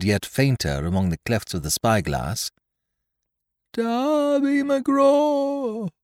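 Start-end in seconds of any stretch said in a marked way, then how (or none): 3.7-5.9 very high, slow, drawn-out wail; eerie far-off hail from the trees; ghostly wail. Acted. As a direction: wail the name like a distant ghost. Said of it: "it wailed".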